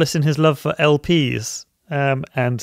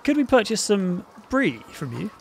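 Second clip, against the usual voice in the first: higher, eager crypto bro; degenerate DeFi guy; 5 semitones higher than usual. Acted. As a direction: play the keen crypto newbie. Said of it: "Who's gonna be the degenerate DeFi guy?".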